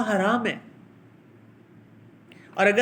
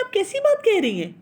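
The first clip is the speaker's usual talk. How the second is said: much higher, shocked indignant disbelief; incredulous mother; 11 semitones higher, 3 dB louder than usual. Retold or imitated. Mother who hits her child, stunned at the suggestion. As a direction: gasp it out as if the idea is absurd. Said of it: "تو وہ ایسے دیکھتی ہیں کہ".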